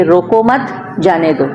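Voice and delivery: रोको मत joined, then जाने दो set apart; grouped phrasing. Shown as a demonstration. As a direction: slowly, keep मत with रोको before जाने दो. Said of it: "उनको कहना आपने इस तरीके से".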